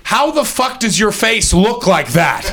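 high, drawn-out cheeky demand; mock lively small talk. Partygoer quizzing a celebrity chef on his face, high and incredulous. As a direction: pitch it way up, stretching the question out. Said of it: "But Gordon Ramsay would be like".

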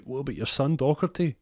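high-pitched mock protest; protesting girlfriend. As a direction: plead as the indignant girlfriend. Girlfriend protests about their son.

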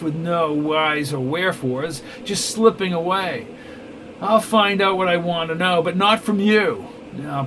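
a polished tyrant toying with captives; smug villain. Acted. Villain Neville addresses prisoners.

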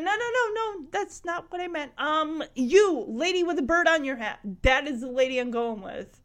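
high, eager quick correction; high excited protest. Retold or imitated. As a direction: blurt it out in a rush. Retold man correcting a mix-up.

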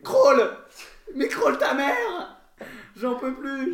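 high frantic shouting; in ice cold water. Acted. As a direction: yell like freezing in icy water. Acted swimmer in ice bath.

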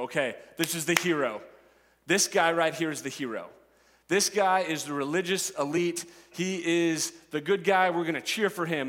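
rising, excited crowd talk building to a shout; crowd cheering. Retold or imitated. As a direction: whip up the crowd for the hero. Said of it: "they go".

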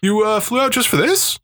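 mock Asian accent, surprised question. Conference executive asks if he flew in, mild Asian accent. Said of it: "I had an Asian accent for that".

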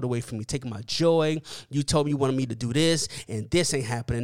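mildly heated complaint, running on without pauses; retold frustration. Preacher retelling a complaint to God, mildly frustrated. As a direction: let the grievances pile up, a touch angry. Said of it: "now I'm angry and I'm frustrated".

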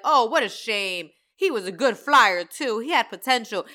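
a hint of a disappointed Santa; mock Santa. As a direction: sneer it like a fake-sorry boss. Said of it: "Santa is over there like".

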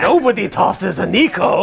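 slow, lightly voiced gruff father; gruff dwarf dad voice. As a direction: play the burly Greek dad. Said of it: "He's played by John Rhys Davies".

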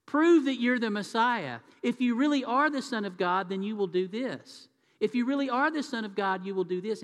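lightly voiced devil pressing a challenge; preacher voicing Satan tempting Jesus, mildly taunting. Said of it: "Satan tries to get Jesus".

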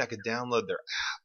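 odd sudden voice break mid-sentence; voice glitch. Real, not acted. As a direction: voice suddenly goes strange, unplanned. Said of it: "Whoa, what just happened to my voice?".

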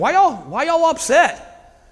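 lightly voiced mild surprise; casual retold question. Jesus voiced to the mourners.

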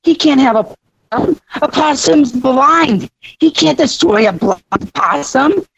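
defending the possum to Jenny, high and pleading; protesting. Retold or imitated. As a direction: plead for the blind possum, drawn out. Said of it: "And I said".

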